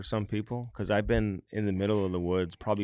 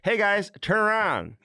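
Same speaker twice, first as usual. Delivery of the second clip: high mock voice of wife wanting selfies; imitating wife; 12 semitones higher, 4 dB louder than usual. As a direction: mimic a wife chirping for another photo. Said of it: "because Laurie's taking pictures".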